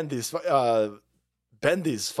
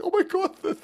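mock crybaby wail; 3 dB louder than usual. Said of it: "This fucking idiot's like".

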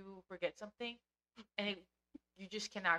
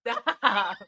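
sharp, loud cut-off; loud stop; 3 semitones higher, 15 dB louder than usual. Real, not acted. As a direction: shut it down firmly. Sharp stop, much louder.

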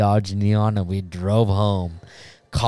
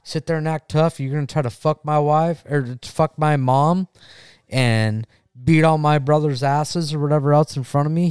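higher, fast confrontational rant; retold challenge; 4 semitones higher than usual. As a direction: act out a brother squaring up for a fight. Brother's challenge acted out.

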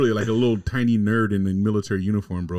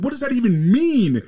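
very high, louder, exasperated squeak; mock baffled husband; 14 semitones higher, 5 dB louder than usual. Retelling the husband baffled by his wife, very high and loud. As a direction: shriek it like a baffled little nerd.

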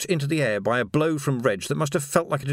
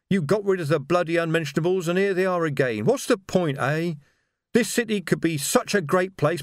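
tearful bitter rant; 4 semitones higher than usual. Acted. Reg weeping to Vimes behind the barricade, higher and bitter. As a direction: pour out grief and bitterness, close to tears.

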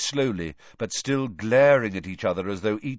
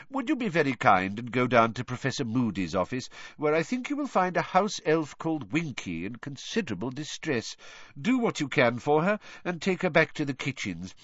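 put-on higher, gently commanding old wizard; kindly leader's voice, pitched up; courteous headmaster; 6 semitones higher than usual. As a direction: make a polite but firm request.

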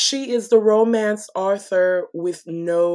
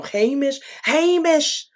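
higher-pitched attempt at a Scottish accent; botched Scottish accent; 5 semitones higher, slower than usual. Shown as a demonstration. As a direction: try Scottish, landing on Yiddish Scotsman. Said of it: "you sounded like a, a Yiddish Scotsman".

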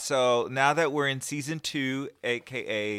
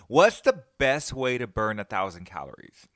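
joke setup; 3 semitones lower, 4 dB louder than usual. Real, not acted. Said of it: "I have a funny".

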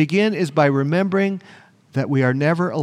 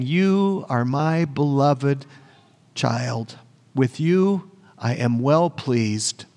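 gentle voice of God; 3 semitones lower, slower than usual. Acted. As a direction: let each word fall slowly, like a father's blessing. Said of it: "he heard a voice from heaven saying".

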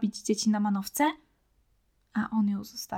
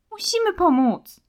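insistent shout; 10 semitones higher, 7 dB louder than usual. Acted. Children quarrel in forest.

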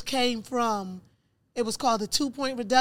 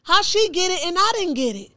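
higher, louder wail of disbelief; retold tearful protest; 7 semitones higher, 7 dB louder than usual. Denied applicant protesting that a friend got clemency, retold tearful outcry. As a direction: cry out at the unfairness, voice pitched up. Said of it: "I cried like a baby".

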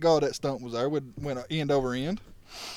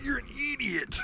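exasperated; 10 semitones higher, 5 dB quieter than usual. Retold or imitated. Retold reaction to driver.

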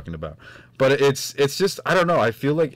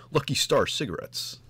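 John Hamm impression; 5 semitones higher than usual. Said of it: "That's my John Hamm".

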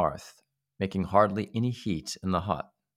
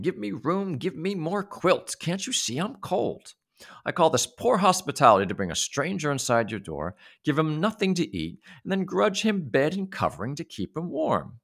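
much higher, whiny, demanding; shouting little man; 8 semitones higher than usual. Acted. Little man shouting complaints at the boys, high.

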